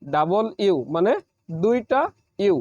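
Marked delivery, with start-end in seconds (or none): 0.0-0.8 ডাবল ইউ said as double U; teacher says ডাবল ইউ in two clear parts; English W. Shown as a demonstration. Teacher corrects the common ডাব্লু. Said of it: "কিন্তু এটি হবে".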